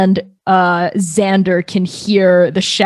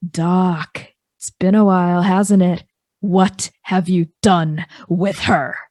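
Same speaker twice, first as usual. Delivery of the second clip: a calm voice over an intercom; Grist's voice. Acted. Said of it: "which is Grist's voice, just goes".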